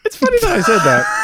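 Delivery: squeaky high yelled line; high shout. Pretend. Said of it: "I'm gonna start saying".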